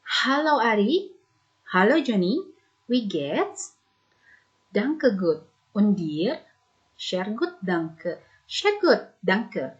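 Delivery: lively dialogue reading, voicing two speakers; teacher voicing a casual German dialogue for students; dialogue read aloud. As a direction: read the greetings like two friends meeting. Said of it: "Ibu bacakan".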